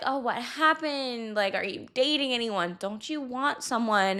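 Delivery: patronising, condescending, talking-down tone. Imitating people who question being single: imitating a condescending tone. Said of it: "said with this condescending tone".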